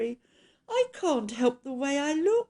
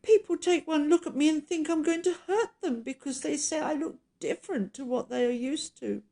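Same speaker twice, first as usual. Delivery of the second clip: high-pitched, wailing apology; hammed-up weepy, lonely monster; tearful creature; 7 semitones higher, 3 dB louder than usual. A narrator's reading. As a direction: plead pitifully in a high crying voice. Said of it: "with tears rolling down his cheeks".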